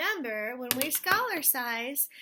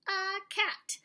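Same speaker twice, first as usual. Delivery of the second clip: whisper; 8 semitones higher, 4 dB louder than usual. Acted. Excited about a favourite thing.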